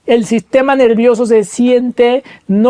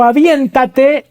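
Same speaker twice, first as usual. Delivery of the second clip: encouraging father; 6 semitones higher, much slower than usual. Retold or imitated. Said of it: "y le dijo".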